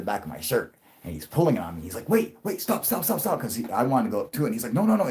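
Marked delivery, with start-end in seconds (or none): 2.1-3.4 scared pleading. Retold or imitated. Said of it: "he was really afraid of it". 4.7-5.1 high, urgent, scared pleading; frightened refusal. Retold or imitated. Brother-in-law begging him not to approach the UFO, high and scared. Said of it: "he was really afraid of it".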